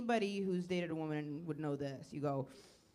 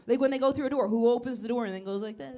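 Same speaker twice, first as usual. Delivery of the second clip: loud rant; 6 dB louder, faster than usual. Acted. Comic ranting loudly about doors.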